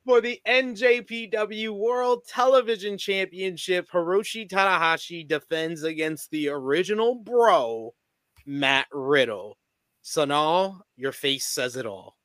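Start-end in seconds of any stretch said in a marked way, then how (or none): 0.0-9.6 slightly raised announcer read; match-card announcement. Acted. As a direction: announce the title match with measured emphasis. Host reads out match card.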